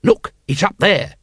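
put-on exasperated cry, cutting the child off; shouted. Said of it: "shouted Vimes".

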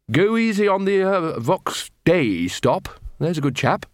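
Ridcully voice. Acted.

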